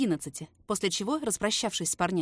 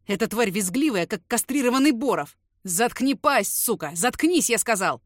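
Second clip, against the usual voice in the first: louder, furious yelling at the man on the floor; raging brother yelling; angry yell; 6 dB louder than usual. Acted. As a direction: bark curses at him. Enraged brother yelling at traitor.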